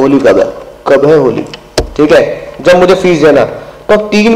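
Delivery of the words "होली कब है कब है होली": a light, lower Gabbar menace, barely acted; lightly voiced Gabbar asking about Holi; Gabbar impression. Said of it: "Gabbar की तरह". (हल्की-सी गब्बर की नकल)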